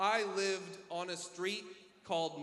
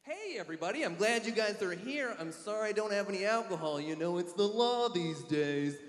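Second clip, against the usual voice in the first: sober 1920s party host; 3 semitones higher, slower than usual. Pretend. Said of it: "my impression of a party".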